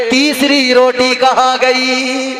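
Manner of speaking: each word drawn out; stretched-out demanding question; slow questioning. Acted. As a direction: slowly press for the answer. Prophet presses the thief.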